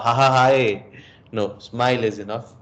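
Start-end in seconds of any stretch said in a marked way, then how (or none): 0.0-0.9 an over-the-top fake laugh, a bit louder; mock forced laugh. Coach mocking a forced laugh to a student. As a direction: ham up a nervous laugh. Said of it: "you don't have to laugh".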